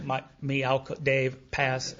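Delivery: mock tongue-tied introduction, broken into fragments; nervous fumbling. Newcomer botching his meeting introduction, mock nervous. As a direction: stumble loudly over each word as if panicking. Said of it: "so nervous I would screw it up royally".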